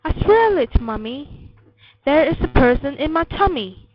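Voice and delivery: put-on a child's earnest, emphatic plea; insistent protest.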